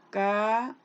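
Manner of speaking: Carácter split into CA, RAC, TER; long pauses between the syllables of Carácter. Shown as a demonstration. Teacher counting syllables in Carácter, each one separate. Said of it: "esto de separar".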